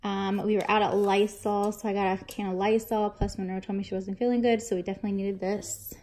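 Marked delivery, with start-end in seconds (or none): 3.1-5.9 fast, breathless rush of words; talking while winded; out of breath. Real, not acted. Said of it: "I'm out of breath".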